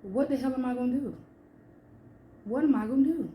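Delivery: despairing. Retold or imitated. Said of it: "and I cried and I'm like".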